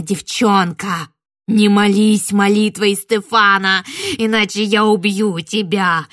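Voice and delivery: slow, loud threatening shout; raging witch. Acted. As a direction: roar threats at the praying girl. Witch rages against the prayer.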